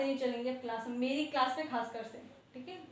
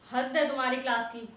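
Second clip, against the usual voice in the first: louder exasperated rebuke; fed-up scold; 6 dB louder than usual. Real, not acted. Teacher to class that wasted the period, exasperated rebuke. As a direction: let the frustration burst out.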